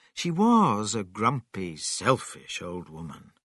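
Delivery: ordinary delivery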